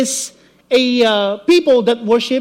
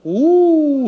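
shocked ooh; 4 semitones higher than usual. Real, not acted. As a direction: gasp then drop it gravely. Shocked reaction to heresy.

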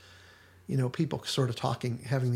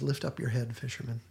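soft and tender, a touch quieter; gentle reassuring; 2 semitones lower, 5 dB quieter than usual. Retold or imitated. Jesus voiced in retold scene.

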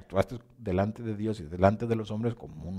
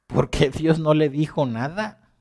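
slow, higher wondering question; puzzled question; 5 semitones higher, 4 dB louder than usual. Pretend. Believer wonders aloud why God kept silent, slow and puzzled. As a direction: ask it slowly, puzzling over it. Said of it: "te pones a pensar y dices".

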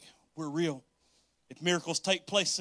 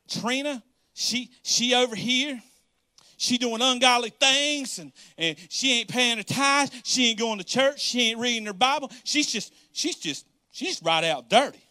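raised, louder indignant gossip; gossiping churchgoer; 4 semitones higher, 5 dB louder than usual. Retold or imitated. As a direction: tattle on Trina with mock outrage. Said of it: "That's some bull crap".

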